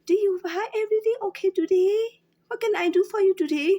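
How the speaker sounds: bright high customer-service greeting; cheery clerk voice. Retold or imitated. Cashier mimicking the script her bosses demand, high and chirpy. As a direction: sing it out like an eager shop clerk. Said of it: "they just want me to talk like".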